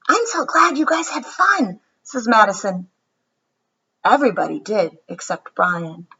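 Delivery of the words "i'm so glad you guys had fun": put-on higher, sweet little-girl voice; a hint of a pleased hostess; lightly voiced girl. Madison answering her party guests, lightly voiced girl.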